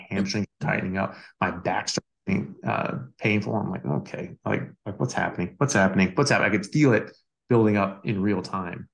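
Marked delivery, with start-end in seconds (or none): 3.8-6.5 growing alarm. Retold or imitated. Feeling the soreness build up, rising alarm. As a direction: let the panic climb with each repeat.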